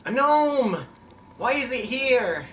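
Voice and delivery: high, loud cry of surprise; excited outcry. Real, not acted. Spots a gnome in the game.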